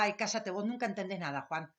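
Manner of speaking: a lightly acted curt put-down; mock aggressive. Shown as a demonstration. Teacher contrasting the rude way to silence Juan, mock curt. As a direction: brush him off dismissively, no real heat. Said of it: "a la forma agresiva".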